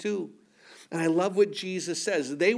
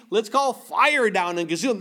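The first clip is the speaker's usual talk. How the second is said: raised, eager mock fervor; mock zeal; 3 semitones higher, 5 dB louder than usual. Preacher imitating the zealous disciples, a touch raised. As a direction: ham up the hothead disciple. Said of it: "that's zeal".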